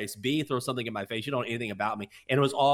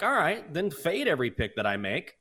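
retort; 5 semitones higher than usual. Retold or imitated. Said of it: "I'm like".

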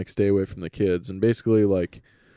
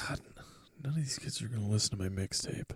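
mock lament; 14 dB quieter, faster than usual. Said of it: "You were like".

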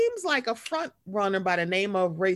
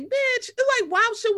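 high mock outrage; 14 semitones higher than usual. Reacting to Peter.

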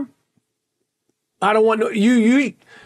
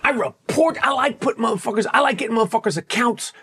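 shouting. Real, not acted. Threatening X trolls.

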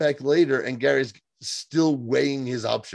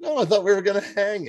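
playing Gary; 9 semitones higher than usual. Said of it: "he's like".

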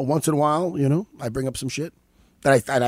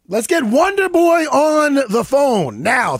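announcer voice; 11 semitones higher, 5 dB louder, slower than usual. Acted. Announcing loudly on the show.

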